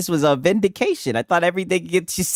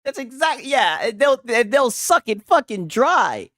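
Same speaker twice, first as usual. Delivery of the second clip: laughing agreement; 8 semitones higher, slower than usual. Real, not acted.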